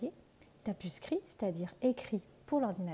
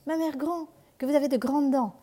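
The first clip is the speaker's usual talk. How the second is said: put-on high and louder, startled child; frightened girl; 5 semitones higher, 6 dB louder than usual. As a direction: cry out at the teeth. La fillette s'étonne. (fillette effrayée, voix haute et forte)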